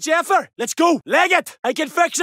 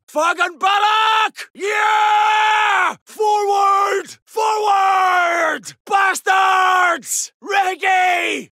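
battle cry; 3 semitones higher, much slower than usual. Acted. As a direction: bellow it as you storm forward. Battle cry during charge.

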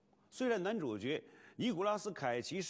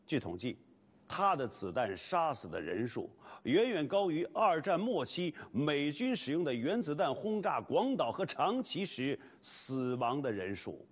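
lively documentary narration; 4 dB louder than usual. Acted.

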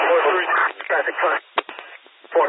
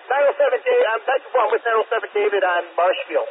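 crackly police radio transmission; talking through a handheld radio; over a radio; 5 semitones higher than usual. Real, not acted. Police unit calling in by radio.

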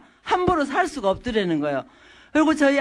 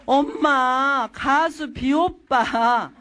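very slow stretched plea; drawn-out child whine; 2 semitones higher, much slower than usual. Acted. Daughter begs mother to see a singer, slow drawn-out whine. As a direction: drag out each word like a begging kid.

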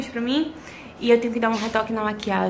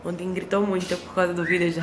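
hoarse; 4 semitones lower than usual. Real, not acted. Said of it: "Eu tô um pouquinho rouca".

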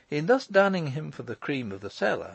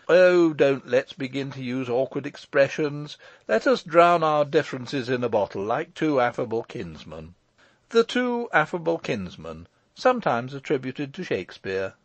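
breezy Michael; 2 semitones higher, 3 dB louder than usual. Acted.

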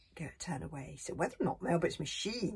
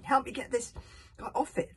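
urgent call; 7 semitones higher, 5 dB louder than usual. Acted. Fishlegs calls urgently.

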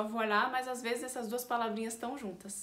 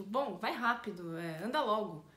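somewhat irritated. Shown as a demonstration. Teacher translates hurrying someone up, mildly irritated. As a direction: nag them to get a move on. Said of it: "eu tô meio irritada".

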